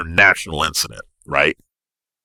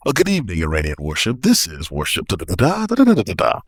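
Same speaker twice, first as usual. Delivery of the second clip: soft, smooth radio voice; cool and collected on the radio; calm pilot voice; 3 dB quieter than usual. Retold or imitated. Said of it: "in a nice, cool, calm pilot voice".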